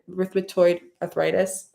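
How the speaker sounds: "rheumatoid" said clearly, syllable by syllable, "roo-ma-toid"; careful "rheumatoid" for the audience; careful pronunciation. Shown as a demonstration. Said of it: "That's how you pronounce it".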